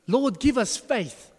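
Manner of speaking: a mock desperate plea for help; exasperated plea. Disciples' exclamation.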